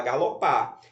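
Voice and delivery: galopar stressed on its last syllable, falling; stress on PAR. Shown as a demonstration. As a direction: land firmly on the final PAR of galopar. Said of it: "Qual é a sílaba mais forte?".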